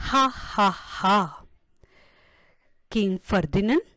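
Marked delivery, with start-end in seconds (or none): 0.1-1.2 light mock "ha, ha, ha" laugh; acted laughter. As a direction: laugh it out lightly, like a king who can't stop. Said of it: "kept on laughing".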